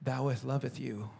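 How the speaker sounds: slow, soft, churchy fake-holy voice; mock pious prayer. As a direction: parody an empty formal prayer. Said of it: "you start off with a prayer to God".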